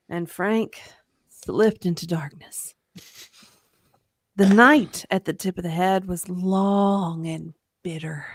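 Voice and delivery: solemn, hushed storytelling; story narration. A narrator's reading. Narrator telling how Frank passed out, solemn narration. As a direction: pause and let the darkness fall.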